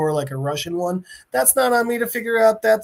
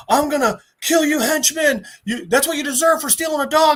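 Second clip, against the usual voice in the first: mock threat; 8 semitones higher than usual. Hero threatens supposed henchman.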